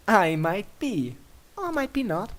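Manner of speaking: giggly tease. Acted. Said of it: "Princess Luna giggles".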